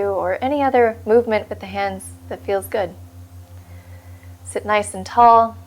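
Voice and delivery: calm, unhurried meditation guide with long pauses; guided meditation. Acted. Meditation teacher settling listeners into their seat, calm guiding voice. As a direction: settle listeners into stillness, leaving space between phrases. Leads a seated meditation practice.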